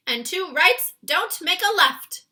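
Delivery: high, loud, slow giant voice; BFG crying out. Acted. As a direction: blurt it proudly as the giant. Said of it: "cried the B F G".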